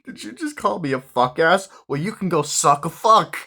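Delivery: high, loud mock retort; mock comeback. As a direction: fire back in a high put-on voice. Sister fires back laughing.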